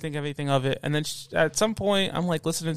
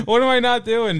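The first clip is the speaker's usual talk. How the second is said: louder, higher, cracking up mid-quote; laughing through the quote; 7 semitones higher, 6 dB louder than usual. Retold or imitated. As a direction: laugh out the question. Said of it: "I'm like".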